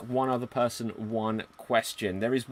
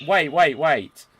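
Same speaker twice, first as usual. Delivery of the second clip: sudden wait; 3 semitones higher, 8 dB louder, slower than usual. Real, not acted. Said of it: "GM realises error".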